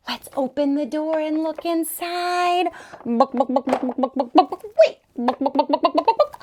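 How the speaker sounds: clucking like a hen; chicken clucking. Pretend.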